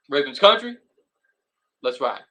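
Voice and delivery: a hint of a hard Southern hype call; Russell Wilson impression. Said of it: "here's my best".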